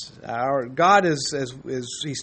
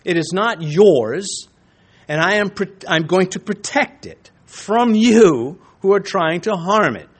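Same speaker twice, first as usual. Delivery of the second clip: mild voice of God; 5 semitones higher, 4 dB louder than usual. Retold or imitated. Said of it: "So when God says".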